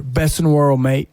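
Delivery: lightly imitated Australian accent; a hint of Australian in a retold quote. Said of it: "they always said ... Pat Cash".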